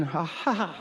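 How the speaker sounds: soft mock chuckle; imitated small laugh. Comic showing normal behavior at a bar, soft mock laugh. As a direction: pretend a quiet bar-side laugh.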